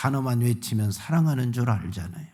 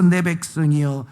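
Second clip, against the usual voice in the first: crying out; 3 semitones higher, 3 dB louder than usual. Retold or imitated. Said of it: "하고 외치는 겁니다".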